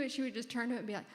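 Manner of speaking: usual speaking voice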